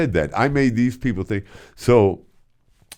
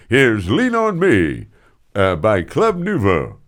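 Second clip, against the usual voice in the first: slow, louder DJ intro; imitating Rick Stevens; 2 semitones higher, 5 dB louder, slower than usual. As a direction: drawl the song intro on air. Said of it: "as Rick Stevens".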